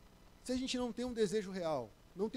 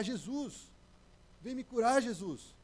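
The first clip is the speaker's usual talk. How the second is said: mock yell; 4 semitones higher, slower than usual. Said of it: "começou a berrar".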